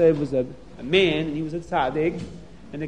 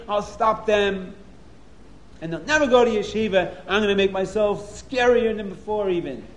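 angry bear; 3 semitones higher than usual. Acted. The bear talking to himself, mildly angry. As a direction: grumble out his anger. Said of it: "He was so angry".

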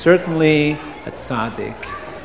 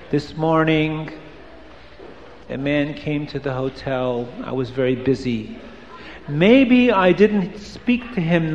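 low, soft confessional voice; reading the book; 3 semitones lower, 6 dB quieter than usual. Acted. Storyteller reading the tzaddik's hidden book to children, hushed and low. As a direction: read the diary entry hushed and lower, like a secret. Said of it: "this is what it says in the book".

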